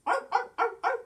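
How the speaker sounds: high, loud seal arfs; barking seal. Pretend. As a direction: yap like a playful sea lion.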